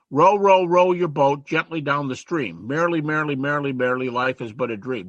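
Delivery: put-on sing-song children's rhyme, spoken not sung; reciting a child's rhyme in class; nursery rhyme recited. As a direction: recite it like a preschool ditty. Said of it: "Here's a couple".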